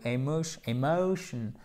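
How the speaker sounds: "emotion" with a gliding O diphthong; double son. Shown as a demonstration. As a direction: glide through the O of "emotion". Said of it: "c'est un double son". (« emotion » avec une diphtongue sur le O)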